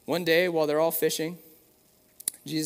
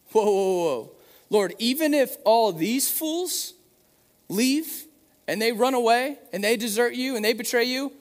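high, loud, brash declaration; Peter's loud, high-pitched boast; bold boast; 6 semitones higher, 5 dB louder than usual. Acted. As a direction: protest loudly that you'd never leave him. Peter boasting loyalty to Jesus.

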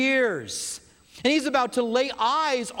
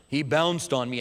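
Eeyore voice; 6 semitones lower than usual. Retold or imitated. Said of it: "Tigger bounces on him".

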